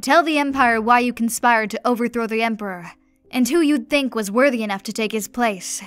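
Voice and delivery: loud, ringing command. Acted. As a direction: order him to confess before the court. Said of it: "the Duchess commanded".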